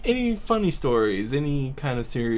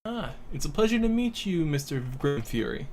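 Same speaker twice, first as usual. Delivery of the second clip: polite gentleman voice; 4 semitones higher than usual. Acted. Player voices Reynard to dwarf.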